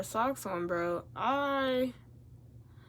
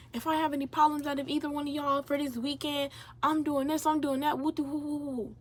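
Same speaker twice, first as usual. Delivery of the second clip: higher-pitched mock authority; warning RA; 5 semitones higher than usual. RA warning two quarrelling roommates, mock-official. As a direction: rattle off a warning, trailing into woo-woos.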